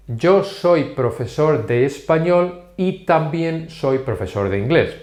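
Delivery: measured, word-by-word delivery; slow model sentence. Shown as a demonstration. Teacher shows learners an example with también, slowly.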